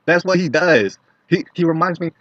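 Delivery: loud, high-pitched exclamation; exasperated outburst. Real, not acted. Exasperated rant about Bernie's habit.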